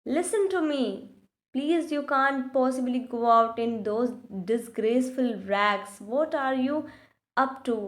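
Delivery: put-on very slow, careful English read-aloud for children; slow storybook reading. A narrator's reading. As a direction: read each word out slowly like a class reader.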